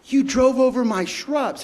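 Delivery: high, slow amused retelling; laughing it off. Retold or imitated. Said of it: "she was laughing".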